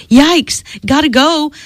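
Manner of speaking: high, hurried-sounding yelp in storytelling; sudden storybook outburst; startled exclamation. A narrator's reading. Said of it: "exclaimed Dee and Tyler".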